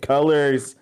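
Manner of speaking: loud, high overwhelmed cry; dazed outburst. Retold or imitated. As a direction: blurt it out after a nosebleed. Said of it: "you're just like".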